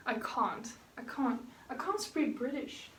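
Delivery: tentative British accent on "can't"; amateur British accent, quietly tested; attempted British accent. Shown as a demonstration. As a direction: softly try out a British accent. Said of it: "I can try to speak British right now".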